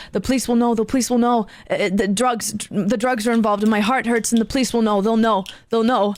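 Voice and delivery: lightly voiced low, fixated rambler; mumbling man. Man worried about police and drugs, mumbling. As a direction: imitate a paranoid man's repetitive low rambling. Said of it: "He starts mumbling".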